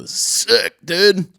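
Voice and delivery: high, excited mock cheer; retold excitement. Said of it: "I was like".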